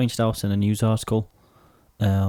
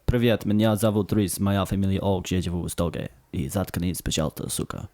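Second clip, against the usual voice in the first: speaking Russian; 3 semitones lower than usual. Shown as a demonstration. Man trying Russian on his podcast co-host, genuine-sounding Russian accent. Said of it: "said that like I'm Japanese".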